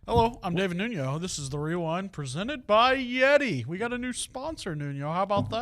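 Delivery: lightly voiced news anchor; a hint of a TV anchorman. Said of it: "why do I sound like an anchorman".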